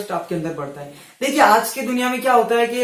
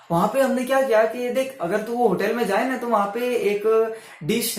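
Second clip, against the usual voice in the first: chatting with a friend. Shown as a demonstration. Vlogger demoing a varied tone, casual friend talk. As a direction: friendly chat with rising and falling tone. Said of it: "ध्यान से सुनना".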